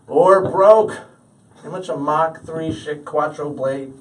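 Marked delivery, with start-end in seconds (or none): 0.0-0.9 loud, high, drawn-out protest; mock freak-out. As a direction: wail it as an exasperated comeback. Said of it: "I freak out and respond with".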